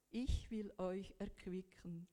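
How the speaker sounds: slow whispered promise. Retold or imitated. Quoting God's promise to the weary in a slow whisper. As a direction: let God's promise fall to a whisper, slowly.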